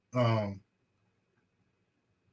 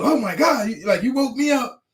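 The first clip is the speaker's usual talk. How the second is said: mock annoyed; 6 semitones higher than usual. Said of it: "I was".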